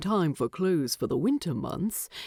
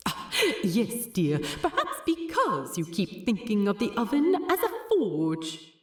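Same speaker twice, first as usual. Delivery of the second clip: teasing with a laugh; chuckling through the words; 3 semitones higher than usual. Acted. Bilbo teases Thorin fondly.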